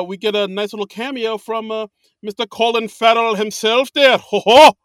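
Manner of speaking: hammed-up Irish presenter with a loud "Ho, ho!"; Irish accent. Podcaster keeps joking to cohost, cheery Irish accent. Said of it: "it's fun to do accents".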